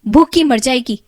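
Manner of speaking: loud angry stepmother. Acted. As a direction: drive the girl out in a rage. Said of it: "बड़े गुस्से में मीना से कहती है".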